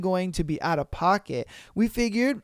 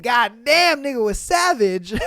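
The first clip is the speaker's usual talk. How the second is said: amazed shout; 3 semitones higher, 4 dB louder than usual. Real, not acted. Reacting to the story's comeback.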